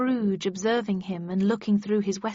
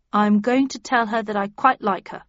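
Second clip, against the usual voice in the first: resolute; 6 dB louder than usual. Acted. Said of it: "he answered resolutely".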